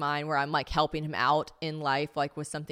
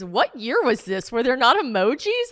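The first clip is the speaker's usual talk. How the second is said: higher, louder mock bafflement; incredulous friend's question; 6 semitones higher, 8 dB louder, slower than usual. Friend reacting to a journal entry, mock incredulous. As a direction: imitate a friend's baffled, high-pitched question.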